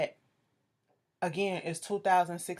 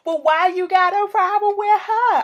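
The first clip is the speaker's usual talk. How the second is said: high, loud mock yell; retold confrontation; 12 semitones higher, 12 dB louder than usual. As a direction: holler it as Lyrica butting into the fight. Retold quarrel, Lyrica confronting someone.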